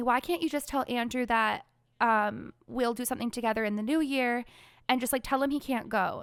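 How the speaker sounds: ordinary talk, nothing marked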